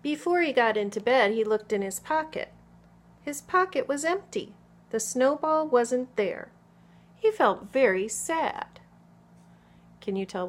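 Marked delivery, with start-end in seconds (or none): 0.0-8.8 put-on expressive picture-book narration for small children; story read-aloud. A narrator's reading. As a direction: read clearly and with lively emphasis to children.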